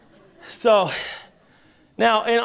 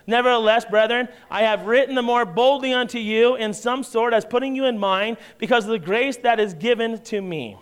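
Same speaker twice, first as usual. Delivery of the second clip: scripture reading; 2 semitones higher than usual. Acted.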